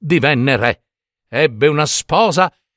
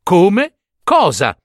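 louder repeat, dropping on the last word; recorded echo; 5 semitones higher, 4 dB louder, slower than usual. A narrator's reading. Scribes record the suitor's words, echoing them. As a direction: echo it back as if taking it down. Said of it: "tutti gli scrivani registrarono".

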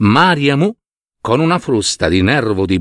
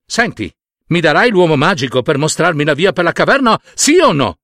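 fast, higher-pitched ultimatum; pressing demand; 5 semitones higher, faster than usual. Acted. Man threatens python for the egg, rapid insistent demand. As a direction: demand it quickly, climbing to the end.

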